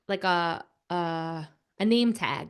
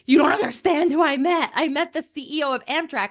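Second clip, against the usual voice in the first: higher, excited telling of big news; excited bragging; 4 semitones higher than usual. Retold or imitated. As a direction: gush as if back home telling everyone. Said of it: "makes me the most excited".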